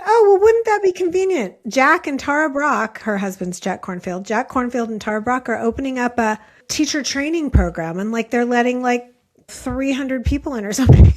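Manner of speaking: high, loud wry teasing; wry quote. Retold or imitated. Teacher ribbing her student, high and loud with irony. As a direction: tease him that it's all too convenient. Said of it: "And she said".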